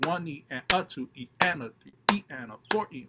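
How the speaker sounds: deliberate "one E and a" count with punched accents; counting out loud. Shown as a demonstration. Student showing how they drill it into their head, accented counting. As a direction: count in time, stressing every third syllable from "one". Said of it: "try to count it out loud".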